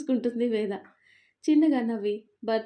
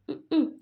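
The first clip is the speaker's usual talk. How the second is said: pouting hmm; 6 semitones higher, 4 dB louder than usual. A narrator's reading. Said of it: "అని మూతి తిప్పుతూ".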